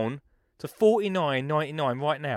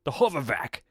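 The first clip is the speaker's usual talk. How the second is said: trying to sound cool. Shown as a demonstration. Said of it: "I don't know how to say it cooler".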